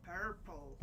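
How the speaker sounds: cartoon-monster take on a Scottish "purple"; attempted Scottish accent. Shown as a demonstration. Co-host retrying purple for the streamer, clumsy Scottish accent. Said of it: "like a monster from a cartoon".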